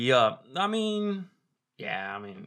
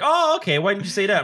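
mocking locals; 7 semitones higher, 5 dB louder than usual. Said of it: "they're like".

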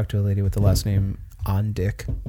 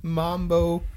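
silly mock insult; 7 semitones higher, 6 dB quieter, much slower than usual.

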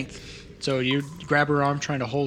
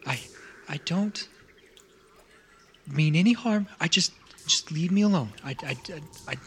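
frightened stammer, words tumbling out; a terrified kid stuttering for mercy; a scared child begging to be left alone; 3 semitones higher than usual. Acted. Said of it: "it's stuttering, it's hyperventilating".

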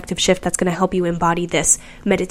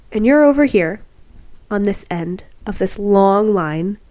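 measured guiding voice with long pauses; guided meditation. Real, not acted. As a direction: lead the listener through a visualization, lingering on key words.

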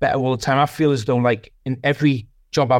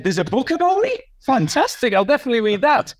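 mock delight; 10 semitones higher than usual. His own eager reply retold.

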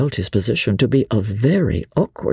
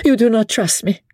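higher, pleading lady's voice; desperate plea; 12 semitones higher than usual. A narrator's reading. Lady Blakeney begging Sir Andrew to trust her, desperate and higher. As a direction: beg him to believe her.

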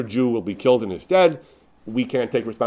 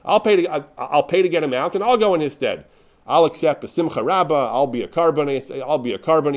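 retold eager offer, pitched up; volunteer eagerly, as if quoting an excited boy; 4 semitones higher than usual. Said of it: "he excitedly said".

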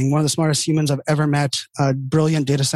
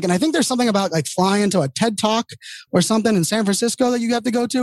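imitating blunt CEO; 6 semitones higher than usual. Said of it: "that's how he talked to me".

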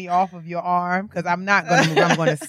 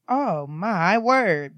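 shocked gasp; much slower than usual. Retold or imitated. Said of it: "And I'm just like".

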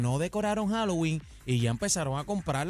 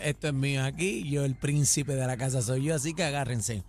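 a lower, lightly voiced proud dog; a hint of a bossy dog, pitched down; dog's voice; 5 semitones lower than usual. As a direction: talk like the dog claiming his yard.

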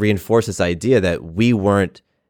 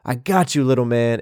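higher, tearful, voice close to breaking; retold crying; 4 semitones higher than usual. Runner comforting his younger self, tearful and higher. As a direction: choke the comfort out through tears. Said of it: "I'm crying and I'm saying loud".

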